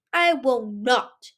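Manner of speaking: put-on slow, deliberate child's refusal; defiant. A narrator's reading. Boy defying the queen, slow and firm. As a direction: plant your feet and refuse. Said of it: "Cliff said defiantly".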